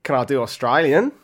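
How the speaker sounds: attempted Australian accent, rising at the end; poor Australian accent. Shown as a demonstration. Offering his co-host an accent, poor Australian attempt. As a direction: try out a shaky-quality Australian accent. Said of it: "a comment about the quality".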